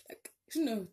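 breathy unsure whisper; hushed aside. Real, not acted. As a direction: whisper it to yourself.

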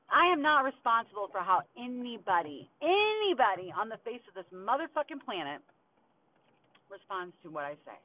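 real anger. Real, not acted. Refusing blame for others' reactions, loudly angry. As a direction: hammer it out, indignant and emphatic. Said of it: "I'm fucking angry, dude".

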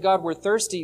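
a gentle, trusting ask, lightly voiced; trusting request. Shown as a demonstration. Israel asking God politely, in a lightly acted trusting tone. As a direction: ask humbly, as someone who trusts. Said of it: "It'd be one thing if they said".

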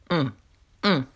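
gum-chewing hums. Real, not acted. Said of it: "This stuff is tasty".

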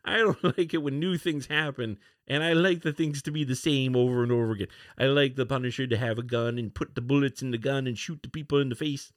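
mock complaining fan, put on; affected voice. Host mimics fans who want the same things, affected voice. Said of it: "I'm using this affected voice".

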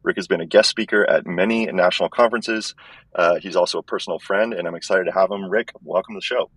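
thin, tinny earbud-mic sound; like talking in a tin can. Real, not acted. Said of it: "It sounds like I'm talking in a tin can".

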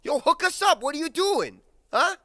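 very high, loud excited demand; clamouring goblin. Acted. Goblins beg kid to hook them up, high and loud. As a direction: badger them eagerly at high pitch.

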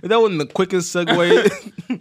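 slow, laughing remark. Real, not acted. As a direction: say it through laughter. Laughing at segue.

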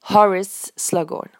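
Horace with the A said almost like an I; English Horace. Shown as a demonstration. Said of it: "le A de Horace, je l'ai prononcé presque comme un I". (Horace avec le A prononcé presque comme un I)

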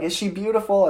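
high-pitched imitation of a moved new mother; retold tender question. Wife asks about their newborn, retold high-pitched question. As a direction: lift it high, lightly imitating her.

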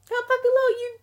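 high and loud, disbelieving; a loud, high squawk of disbelief; indignant shout. Real, not acted. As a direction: throw it out in outrage. Ranting at waiters about pay.

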